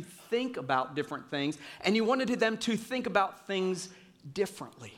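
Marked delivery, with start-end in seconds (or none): none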